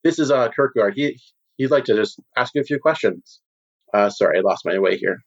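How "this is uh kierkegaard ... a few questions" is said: high, eager host voice, pitched well up; smooth guild boss Moranis. Acted. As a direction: play the slick host showing off a new client. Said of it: "and says".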